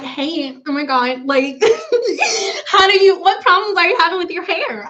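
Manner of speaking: over-the-top giddy hello, laughing through it; mock bubbly greeting. Shown as a demonstration. Greeting a new hair client, hammed-up giddy with laughs. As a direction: gush and giggle like a fake-excited host. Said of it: "I don't talk like that".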